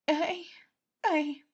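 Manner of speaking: high halting stammer; words catching in the throat; faltering. Acted. A hint of tearful faltering. Patton cannot speak.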